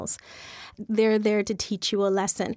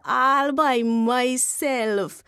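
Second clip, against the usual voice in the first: slow proud brag; much slower than usual. Acted. Lenneman brags to wife.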